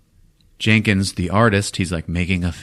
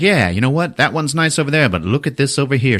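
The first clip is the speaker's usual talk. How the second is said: higher, lively sales patter; smooth-talking salesman; 5 semitones higher than usual. Retold or imitated. Salesman steering a buyer to another car, lively smooth talk. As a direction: steer the customer along with salesman pep. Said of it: "smooth-talking salesman".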